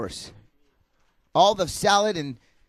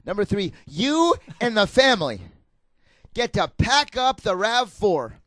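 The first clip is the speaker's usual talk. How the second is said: booming prize announcer; 2 semitones higher than usual. Pretend. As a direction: sell the prize like a host. Game show prize pitch.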